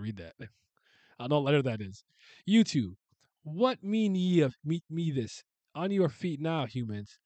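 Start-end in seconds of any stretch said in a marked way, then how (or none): 2.4-7.2 raised, higher, louder olde-English god; lordly god voice. Acted. God scolding worshippers, raised and commanding. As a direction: boom it down at the kneeling humans.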